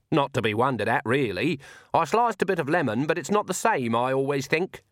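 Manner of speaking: lightly voiced old witch, chatty and casual; unruffled Granny. Granny grumbles about tea before the Count, lightly unruffled.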